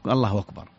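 الله أكبر run together as "Allahu wakbar"; softened hamza. Shown as a demonstration. Scholar explaining Arab dialect usage, hamza softened. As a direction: ease أكبر in from الله without a glottal stop. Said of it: "والهمزة تسهل في".

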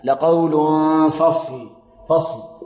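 لقول with nasal hum gliding into فصل; prepare for fa. Shown as a demonstration. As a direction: hide the tanween of لقول nasally before the ف of فصل. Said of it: "يتهيأ للفاء".

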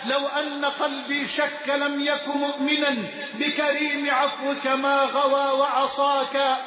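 measured devotional recitation; poem recitation. Acted. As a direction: recite it as a humble prayer.

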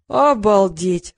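медленно и громко, с возмущением; протяни «Обалдеть!» возмущённо и громко. Acted. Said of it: "возмутился Сеня". (возмущённый возглас)

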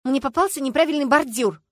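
high, loud exclamation; exclaiming. A narrator's reading. Люська defends her driving to the inspector, exclaiming loudly. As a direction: blurt out an excuse. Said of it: "вскликнула Люська".

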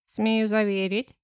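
slow, dry and curt; dry reply. Acted. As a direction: answer dryly, unmoved. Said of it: "сухо отозвался". (сухо, медленно)

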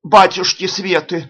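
slow, high alarmed exclamation; frightened cry. A narrator's reading. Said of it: "заколотила Тарасовна". (испуганный возглас)

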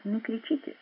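coolly hushing a shouting man; calm and quiet command; calm, soft rebuke. A narrator's reading. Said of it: "спокойно сказал Саундерс".

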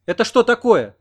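ringing, loud, high demand. A narrator's reading. Oksana storming out from behind the stove, ringing and loud. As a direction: ring out in outrage. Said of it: "звенящим голосом".

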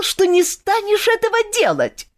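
put-on young woman furious at broken promise; indignant reproach. A narrator's reading. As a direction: throw his promise back at him. Olga reproaches Kantor.

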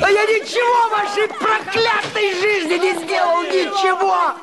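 furious rant. Acted. Husband rages at everyone.

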